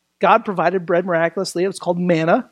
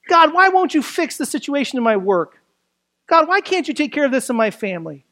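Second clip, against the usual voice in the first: higher, pleading mock whine to God; mock complaining; 5 semitones higher than usual. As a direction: imitate someone pestering God with grievance after grievance. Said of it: "They grumbled".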